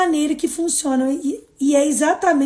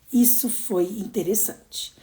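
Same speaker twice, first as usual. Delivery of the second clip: calm inner remark; 4 semitones lower, 5 dB quieter, slower than usual. Shown as a demonstration. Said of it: "diga pra você mesmo".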